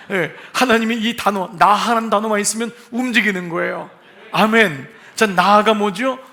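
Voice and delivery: loud, fervent pulpit preaching that calls for an amen; booming sermon climax; full-force preaching. Acted.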